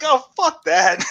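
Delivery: slow, high scoffing brush-off; dismissive. Retold or imitated. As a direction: wave it away with contempt. Mocking friend's dismissive reaction.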